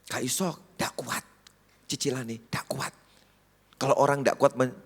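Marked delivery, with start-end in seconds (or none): 0.0-2.9 lightly voiced grumbling wife, much softer; wife fretting about the mortgage, soft mock grumble; nagging wife. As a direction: mutter the worries like a fretting wife. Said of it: "istriku ngomel terus".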